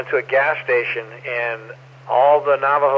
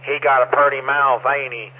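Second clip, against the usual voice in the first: Deliverance hillbilly; 3 dB louder than usual. Acted. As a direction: quote it like a backwoods hillbilly. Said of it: "kinda like Deliverance".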